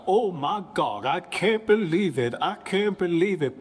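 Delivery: high, astonished repeat; mock shock. Reacting to his son's secular music, in mock shock.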